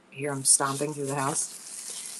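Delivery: slow, soft aside; hushed. Real, not acted. Mother hushing viewers as son wakes, quiet and slow. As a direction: keep it down, he's awake. Hushing so kids don't hear.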